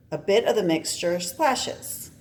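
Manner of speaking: ordinary delivery, nothing marked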